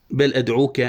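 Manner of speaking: connected, even poetry reading; verse recitation. Shown as a demonstration. Teacher quoting the poet's line, even recitation. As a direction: recite "بل أدعوك" as flowing verse. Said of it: "قال الشاعر".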